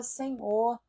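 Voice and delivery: hushed, intimate prayer to the Father; a preacher modelling a Scripture-based prayer, hushed and earnest; sample prayer. Shown as a demonstration. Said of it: "por exemplo, eu vou falar".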